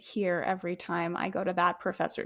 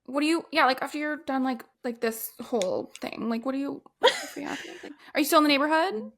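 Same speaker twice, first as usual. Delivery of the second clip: eager flirt; 4 semitones higher, faster than usual. Pretend. Acting the flirt role.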